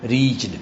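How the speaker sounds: ریچڈ in one low syllable, "reechd"; REACHED with silent E. Shown as a demonstration. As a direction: say ریچڈ with CH running into D. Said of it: "ای silent ہے یہاں پہ".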